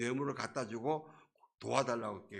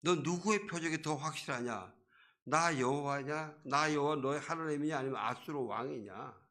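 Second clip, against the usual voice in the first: mildly scolding, slowed challenge; God's rebuke; 3 semitones higher than usual. Acted. Preacher as God making the king choose, mild rebuke. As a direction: press the choice on him reproachfully. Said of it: "하나님이 이렇게 꾸짖으시는 거예요".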